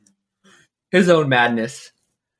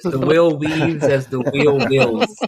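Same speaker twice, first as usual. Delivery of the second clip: The wheel weaves as the wheel wills, each word slow and separate; slow, deliberate recitation; 2 semitones higher, 3 dB louder, slower than usual. Shown as a demonstration. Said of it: "That's your tongue twister".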